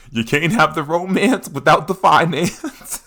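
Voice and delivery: mock sage uncle chuckling through it; a hint of a knowing uncle; old head advice. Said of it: "He'll tell you".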